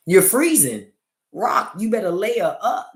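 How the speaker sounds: loud, high teasing scold. Retold or imitated. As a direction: tell him off loudly. Scolding husband loudly.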